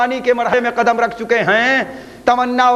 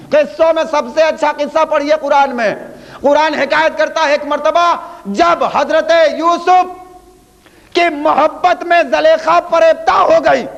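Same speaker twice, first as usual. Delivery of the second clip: raised, declamatory storytelling; full-force preaching; 5 semitones higher than usual. Real, not acted. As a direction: build the tale up to a high, ringing peak. (بلند آواز میں خطیبانہ قصہ گوئی)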